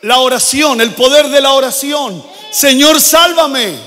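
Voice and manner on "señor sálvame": high, slow, loud cry for help; shouted plea. Acted. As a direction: call out to the Lord, drowning. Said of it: "Le gritó". (clamor alto y lento pidiendo ayuda)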